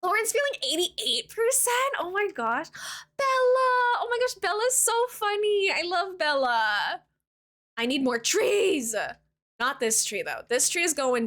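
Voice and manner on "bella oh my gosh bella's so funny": laughing delight. Real, not acted. Reacting to a chatter's result.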